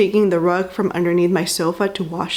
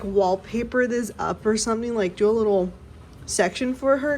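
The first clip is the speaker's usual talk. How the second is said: exasperated; 3 semitones higher, 5 dB quieter than usual. Real, not acted. Exasperated with the pet.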